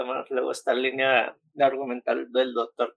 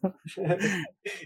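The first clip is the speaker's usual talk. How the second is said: evil laugh; 4 semitones higher, 6 dB quieter than usual. Pretend. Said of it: "Inserta risa malvada".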